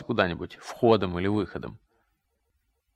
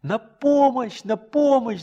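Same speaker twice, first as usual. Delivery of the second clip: slow, higher, louder cry for help; shouting for help; 12 semitones higher, 6 dB louder, much slower than usual. Acted. Boy runs to the coach crying for help, loud slow shout. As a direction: call out for help across the field. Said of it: "закричал я".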